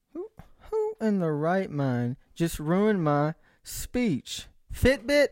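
drawn-out, slow mock complaint; mock annoyance. Real, not acted. A gadget interrupts his speech, slow mock grumble. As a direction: drag it out, pretend offended.

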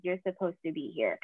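hushed, matter-of-fact comfort; quiet reassurance. Retold or imitated. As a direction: gently imitate a reassuring God. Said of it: "God was just like".

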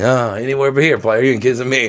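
imitated turkey-neck brush-off; sassy rebuff. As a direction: play the date ducking away with attitude. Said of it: "She hit me with the turkey neck".

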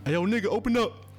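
mild mock shout at the door; calling through door. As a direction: bang on the door and call in. Mafia man knocking at door.

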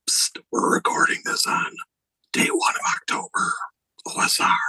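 psst, whispered aside. Real, not acted. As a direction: lean in and whisper the secret. Secret aside to listeners.

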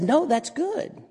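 slow, soft, very high rising comeback; upbeat contradiction. Acted. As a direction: stretch it out high, lifting "good". Comic song's good-bad back-and-forth.

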